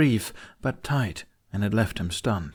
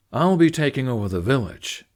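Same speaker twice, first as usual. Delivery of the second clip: boastful; 4 semitones higher, 4 dB louder than usual. A narrator's reading. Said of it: "an air more boastful".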